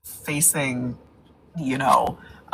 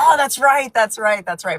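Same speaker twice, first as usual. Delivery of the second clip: sudden realization; 7 semitones higher, 3 dB louder than usual. Real, not acted. Sudden recognition, fading repeats.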